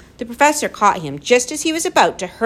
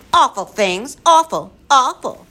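loud, raised creature yell; yelled echo; 7 semitones higher, 6 dB louder than usual. A narrator's reading. Furry horde echoing the boy back at him, yelling. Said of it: "yelled the furry horde".

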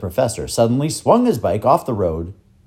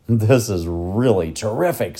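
talking through a mouthful of cake; words round a bite of cake; mouth full. Acted. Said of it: "his mouth full of cake".

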